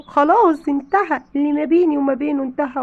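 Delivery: it's over. Acted. Wife refuses to forgive.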